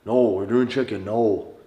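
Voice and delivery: leaning into North Dakota "no"; firm refusal in North Dakota accent. Acted. Coach refusing a woman's dinner wish, North Dakota accent. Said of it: "I'm looking at her and say".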